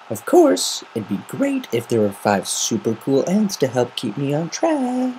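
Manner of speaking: lightly voiced cocky pegasus; Rainbow Dash voice.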